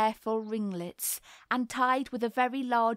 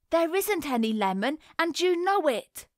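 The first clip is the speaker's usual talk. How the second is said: louder, higher bawl; 6 semitones higher, 4 dB louder than usual. A narrator's reading. Boy shouts at his sister over the tea table, loud bawl. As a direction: yell it at your sister. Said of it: "bawled Roger".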